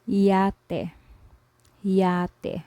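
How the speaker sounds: yate with a y sound, YAH-teh; Spanish word. Shown as a demonstration. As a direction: say yate slowly and clearly. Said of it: "For example".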